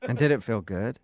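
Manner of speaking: teasing, loaded question; lightly suggestive, probing for details. Real, not acted. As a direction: ask it with a knowing innuendo. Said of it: "why do you say it like that".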